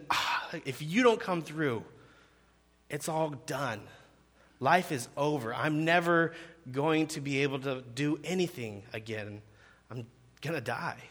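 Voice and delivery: acted despair with pauses, sinking away; gut-wrenching despair. Desperate lepers fear all is lost, understated gut-wrenching despair. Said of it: "That's the kind of gut-wrenching".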